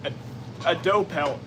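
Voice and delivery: talking through hiccups; words broken by hiccups. Real, not acted. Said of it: "Sorry, I have hiccups".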